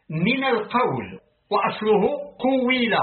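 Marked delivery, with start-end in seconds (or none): 2.4-2.9 قويل as quwila, single w; without gemination. Shown as a demonstration. Reader shows the root form قويل, without doubling. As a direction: say قويل with an undoubled waw. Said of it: "بدون تشديد".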